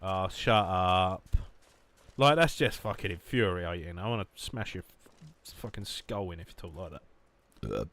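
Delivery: mock-aggressive Essex bloke accent. Streamer demonstrating Essex phrases, mock-threatening accent. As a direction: draw out the opening, then rant in Essex. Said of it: "trying to think of good Essex phrases".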